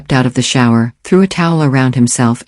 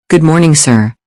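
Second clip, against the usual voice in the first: put-on English accent; 3 semitones higher than usual. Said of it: "near-perfect English accent".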